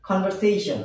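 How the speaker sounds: "conversation" said as "kon-ver-SAY-shn"; correct pronunciation. Shown as a demonstration. Teacher giving learners the proper form, "conversation" as kon-ver-SAY-shn. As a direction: say "conversation" with a clear v and long "say". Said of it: "এর উচ্চারণ হবে".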